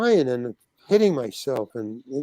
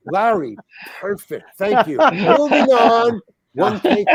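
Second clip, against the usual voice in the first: director wrapping up; 5 semitones higher, 3 dB louder, slower than usual. Retold or imitated.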